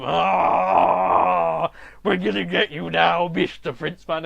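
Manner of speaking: loud drawn-out monster threat; mock villain menace; menacing Shadow Men. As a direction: close in on him as looming shadow monsters. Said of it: "all the Shadow Men are coming along going".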